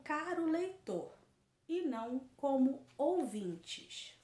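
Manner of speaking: slow, deliberate dictation for emphasis; slow repetition. Shown as a demonstration. Teacher repeating the answer for students, slow and emphatic. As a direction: repeat it slowly, spacing out each phrase. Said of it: "Vou repetir".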